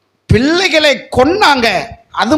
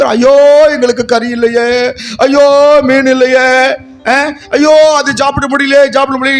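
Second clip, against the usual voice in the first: mock wailing. Preacher mocking Israelites crying for meat, hammed-up wail. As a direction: mimic a whiny cry over missing meat. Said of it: "அழுகுற".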